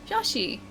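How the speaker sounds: Yoshi with an O in the first syllable. Shown as a demonstration. Correcting chat's impression, Yoshi with O. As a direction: repeat Yoshi with an O to prove it. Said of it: "No, I say Yoshi".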